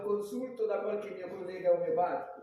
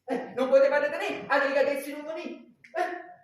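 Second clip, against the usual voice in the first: angry; 6 dB louder than usual. Acted. Scolding rude visitors.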